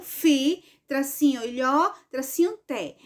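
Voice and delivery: "Fi", "ilhó", "té" each set apart; syllables separated. Shown as a demonstration. Teacher showing the written model, syllables separated. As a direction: spell out syllables with "tracinho" between. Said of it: "Aí aqui eu separei".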